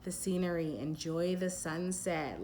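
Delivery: slow and calm. Shown as a demonstration. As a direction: linger on each phrase as if unwinding. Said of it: "It's very, like".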